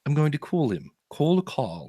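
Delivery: put-on Australian accent. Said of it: "in that case, you would call".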